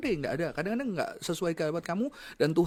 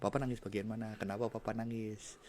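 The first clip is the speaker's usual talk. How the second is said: gentle asking; 6 semitones lower, 12 dB quieter than usual. Acted. Parent asking family questions gently.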